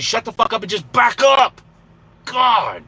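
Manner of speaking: high, loud outburst of exasperation; angry shout. Real, not acted. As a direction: blow up at the honking driver. Rant at honking truckers.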